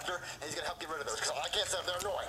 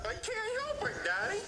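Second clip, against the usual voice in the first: Jeffy voice; 12 semitones higher than usual. Acted. Jeffy whining to Daddy.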